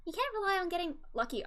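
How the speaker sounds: put-on light, high girly voice for a male lawyer. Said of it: "my girly voice for Phoenix".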